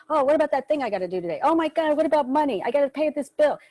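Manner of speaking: worried mind rushing ahead, hammed-up lightly; anxious racing thoughts. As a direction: rattle off the worries, a touch of pretend panic. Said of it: "you'll start finding a thought like".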